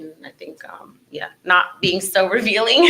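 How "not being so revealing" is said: laughing. Real, not acted. Laughs while making her point.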